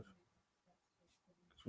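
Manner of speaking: slow, hushed conspiratorial aside; whisper. Real, not acted. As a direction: whisper it slowly like a secret warning. Joking aside about his kid.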